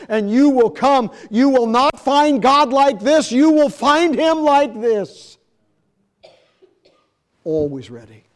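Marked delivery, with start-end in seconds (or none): 0.1-5.4 loud, higher, slowing at the end; preaching climax. Real, not acted. Preacher urging the broken-hearted, loud and climbing. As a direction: build to a ringing climax.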